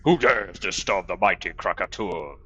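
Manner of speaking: ancient rasping undead king. Acted. Game dragon NPC voice.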